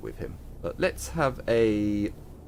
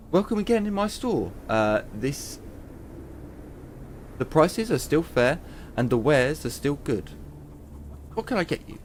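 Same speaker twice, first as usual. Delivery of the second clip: a hint of a friendly wasteland merchant; weapons trader; 4 semitones higher than usual. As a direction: greet the customer like a cheerful merchant. Weapons trader greets customer.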